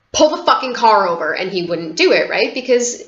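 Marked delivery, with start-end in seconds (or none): 0.1-1.3 higher, louder insistent command; mock-urgent yell at dad; desperate demand. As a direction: order him to stop now.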